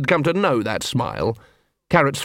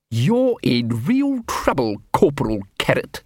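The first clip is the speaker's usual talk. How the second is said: mild snarl. A narrator's reading. Captain threatening Corporal Carrot, mildly snarling. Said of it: "snarled Quirk".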